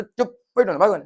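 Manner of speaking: teacher playing a parent scolding a naughty son; mock scolding shout. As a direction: shout them down. Scolding acted enemy.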